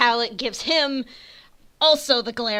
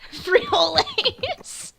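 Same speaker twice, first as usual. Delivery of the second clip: drawn-out shout; 11 semitones higher, much slower than usual. Real, not acted. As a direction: stretch the word out gleefully. Echoing joke name, drawn out.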